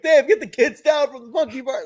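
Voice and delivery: high mock call across the playground; a hint of a shouting parent; mock yelling. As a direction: yell it like a stressed parent. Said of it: "we would just yell random".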